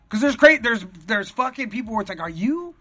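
high, loud incredulous yelling; exasperated rant. Retold or imitated. Comedian ranting at crazy comics, loud and incredulous. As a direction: demand answers from an unhinged comic.

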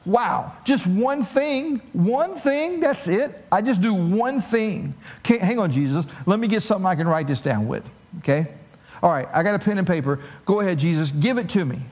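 lightly voiced, eager rich young man. Young man imagining his one task, eagerly excited. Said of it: "He had to be thinking".

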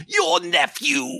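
very high, drawn-out ghost; slow, high apparition. A narrator's reading. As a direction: stretch the words in a high spectral voice. Ghost speaking to Scrooge.

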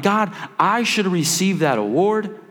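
mock yell at God. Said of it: "yelling at God".

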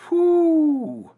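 long high whoo, drawn out; slow high whoop; excited whoo. Real, not acted. Excited about port cities.

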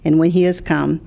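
measured, deliberate Bible reading; scripture reading. Acted. Pastor quoting John to a co-host, scripture reading. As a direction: read the verses out evenly and clearly.

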